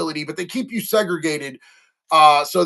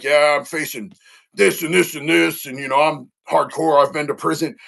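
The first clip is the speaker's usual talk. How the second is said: imitating a lightly put-on hardcore front; fake tough guy; 3 semitones lower than usual. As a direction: act tougher than he feels, half-hearted. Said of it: "I'm trying to put on a tough face".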